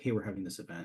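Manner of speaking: ordinary talk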